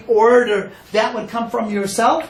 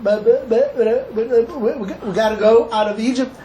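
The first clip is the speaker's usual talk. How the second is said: stuck on the first word, stammering; a mild stammer imitating Moshe; 2 semitones higher than usual. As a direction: stutter through it like a man with a speech impediment. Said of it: "That's how he spoke. Speech impediment".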